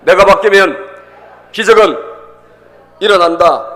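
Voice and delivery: loud, punched phrase by phrase; forceful declaration. Real, not acted. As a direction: proclaim it loudly for the crowd to repeat. Congregation leads repeat-after-me declaration.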